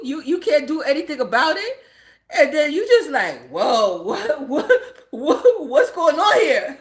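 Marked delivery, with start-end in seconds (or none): 3.5-6.8 stammering shock, retold through laughter; laughing imitation of being dumbfounded; stunned disbelief. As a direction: stumble on "what" in amused bewilderment. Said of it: "That's how I was. I was like, like, shocked".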